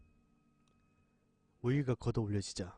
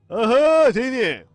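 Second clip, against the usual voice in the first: taunting warning; 6 semitones higher, 14 dB louder, slower than usual. Acted. Investigator blocks and mocks struggling narrator.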